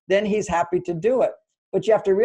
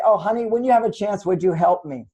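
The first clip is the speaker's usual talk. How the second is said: sweet gentle ask; 3 semitones higher than usual. Shown as a demonstration. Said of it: "and you just say".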